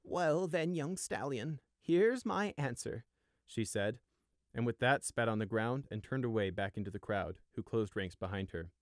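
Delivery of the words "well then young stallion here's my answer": high, slow and cold before spitting; defiant old ewe. Acted. Old ewe defying young stallion: cold, slow. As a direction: drag out the final word of defiance. Old sheep defies the guard.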